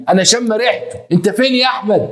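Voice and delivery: high-pitched, accusing call; wronged wife searching. Retold or imitated. Wife smells her husband in the flat, high accusing call.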